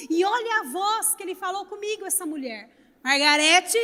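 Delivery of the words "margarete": firm call of the name like a mother; mãe chamando a atenção. Retold or imitated. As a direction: call her name to make her pay attention. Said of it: "essa voz, minha mãe falava comigo". (chamando o nome como mãe que exige atenção)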